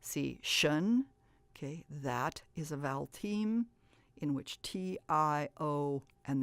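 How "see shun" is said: "see, shun" as two separate syllables; syllable sounds. Shown as a demonstration. Teacher showing children how to say the last syllables. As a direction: say "see" then "shun" apart. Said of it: "And then you're gonna say".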